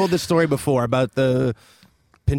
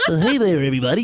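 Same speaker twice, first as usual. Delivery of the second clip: ventriloquist dummy voice; 3 semitones higher, faster than usual. Retold or imitated. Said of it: "You know, one of those".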